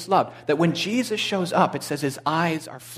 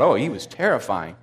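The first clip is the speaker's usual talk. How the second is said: mock dread; 3 semitones lower than usual. Mocking view of Old Testament God.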